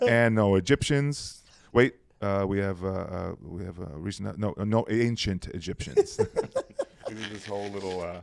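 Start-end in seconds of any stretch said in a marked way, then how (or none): 0.0-6.2 imitating announcer. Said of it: "And then he went".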